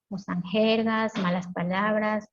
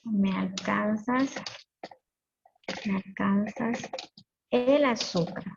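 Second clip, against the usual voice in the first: slow careful reading; slower than usual. Shown as a demonstration. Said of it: "la forma correcta sería".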